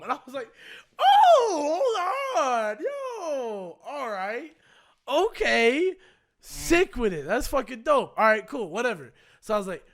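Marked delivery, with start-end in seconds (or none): 1.0-9.1 high, loud, laughing sarcasm; laughing disbelief. Retold or imitated. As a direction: cackle through it, not buying a word.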